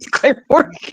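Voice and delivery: Claire Morgan laughed out high; laughing. Real, not acted. To her co-host, laughing at the name. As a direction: say the name through real laughter.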